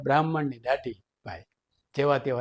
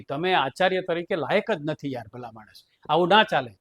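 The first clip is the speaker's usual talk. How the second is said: heated scolding; 2 semitones higher than usual. Retold or imitated. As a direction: scold the principal, rising. Trustee scolding principal.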